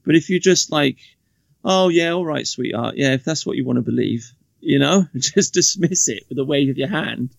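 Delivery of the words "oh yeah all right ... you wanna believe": jokey dismissal. Acted. Man humouring a woman he disagrees with, jokey dismissal. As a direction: wave it off with joking, offhand agreement. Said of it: "in, like, a jokey kind of way".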